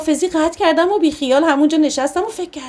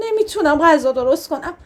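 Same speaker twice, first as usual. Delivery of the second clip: bursting into tears; 3 semitones higher than usual. Acted. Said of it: "ناگهانی زدم زیر گریه".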